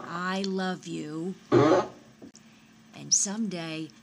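put-on slow, drawn-out reading of a child's card; reading card aloud. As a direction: read it slowly, savoring each phrase. Reads child's card aloud to daughter.

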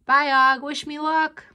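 high, loud little squeak; small animal calling out a goodbye; squeaky hamster. A narrator's reading. Hamster squeaking to his frog friend. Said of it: "I squeaked to my friend".

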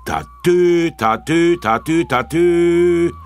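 very high, loud police siren imitation; imitating the police car's horn approaching; siren call. A narrator's reading. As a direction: sing out the siren, drawn out. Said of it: "ein lautes Hupenzeichen".

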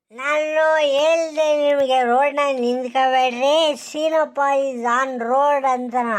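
put-on slow, low drunken slur; drunk slurring. Tipsy rider slurring his excuses to the villagers, slow and low. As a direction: drag the words out like a tipsy rider.

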